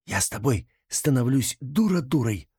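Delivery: a touch of a hushed angry hiss; angry whisper. Acted. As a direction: hiss it at your friend in irritation. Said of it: "со злостью прошептала".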